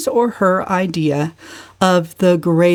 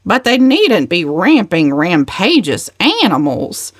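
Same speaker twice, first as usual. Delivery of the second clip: retort. Acted. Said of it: "retorted Cousin Gladys".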